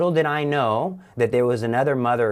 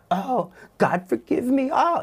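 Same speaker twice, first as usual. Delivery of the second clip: high, sneering parody of a sorry plea; mocking voice. Evil voice mocking his tearful prayer, high sneering. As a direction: mimic a weeping prayer to ridicule it. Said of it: "mocking me and mocking my tears".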